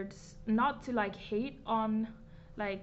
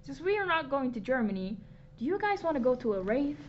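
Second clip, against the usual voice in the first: excited; 4 semitones higher, 4 dB louder than usual. Retold or imitated. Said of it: "My teacher was like".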